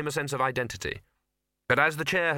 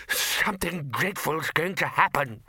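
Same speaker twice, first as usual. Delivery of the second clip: slow, raised panicked cry, held back from full scream; screamed warning; 5 semitones higher than usual. A narrator's reading. Bursar warning the Arch-Chancellor: understated panicked scream. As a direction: grab him and blurt the terror.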